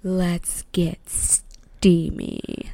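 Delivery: slow, breathy whisper. Pretend. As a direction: whisper it like a tease. Teasing the spicy story.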